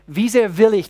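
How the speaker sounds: will kräftig betont, etwas lauter und höher; drück auf das will; stress on will. Shown as a demonstration. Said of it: "die Betonung auf das Wollen". (Betonung auf will)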